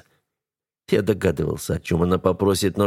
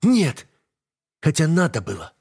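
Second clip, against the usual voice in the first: sharp high outburst, much higher; wife snapping back at husband; flung in anger; 8 semitones higher than usual. A narrator's reading. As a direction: snap it back in the heat of anger. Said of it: "бросает она в сердцах".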